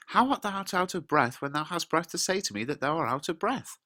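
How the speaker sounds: high-pitched, incredulous run of words; acted indignation. Juliet picks up on the nurse's excuse, mock indignation.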